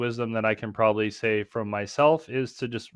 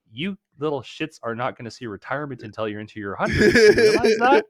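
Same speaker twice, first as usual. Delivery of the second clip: indignant shout; 6 dB louder than usual. Retold or imitated. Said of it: "I'm just like".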